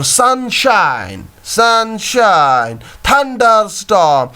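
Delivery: "Sunshine" drawn out, weight on SUN and SHINE; slow "thunderstorm", both THUNDER and STORM stressed; double stress. Shown as a demonstration. Teacher showing stress in compound words, "Sunshine" and "thunderstorm" stressed on both halves. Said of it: "इनमें stress दिया जाता है".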